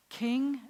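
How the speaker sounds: "king" slow and set apart; mouth-position demo. Shown as a demonstration. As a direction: say "king" deliberately, feeling the K. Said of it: "think about this in your mouth".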